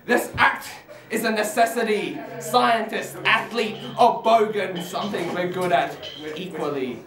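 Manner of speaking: spoken-word poem, measured and emphatic; poetry recitation. Acted. Poet performs a comic poem for an audience, declaimed. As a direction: recite it to a live crowd.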